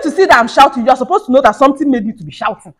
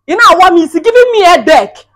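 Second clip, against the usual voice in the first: loud, high complaint; angry shout; 6 semitones higher, 7 dB louder than usual. Acted. Wife yelling about her husband to his mother. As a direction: yell it out in frustration.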